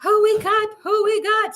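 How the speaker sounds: loud, high hype greeting; excited greeting. Real, not acted. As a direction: greet the crowd with big energy. Host greeting the live crowd.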